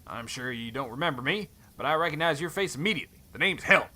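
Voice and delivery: a hint of a Western cowboy accent. Stranger Helm greets Thorn in a light cowboy accent. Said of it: "he's got, like, a cowboy accent".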